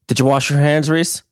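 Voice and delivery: lightly voiced stern dad; mock stern parent. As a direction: quiz the kid like a suspicious parent. Parent scolding kid, retold.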